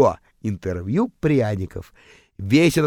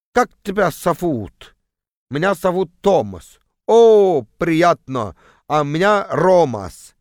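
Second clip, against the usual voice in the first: mock Estonian accent with drawn-out vowels; 2 semitones higher, slower than usual. Two bus neighbours introduce themselves in mock Estonian accent. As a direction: introduce yourself in a put-on Estonian drawl. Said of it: "С таким же акцентом".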